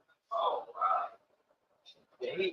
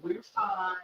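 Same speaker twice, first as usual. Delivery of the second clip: hushed reassurance; 13 semitones higher, 7 dB quieter than usual. Retold or imitated. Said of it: "like that".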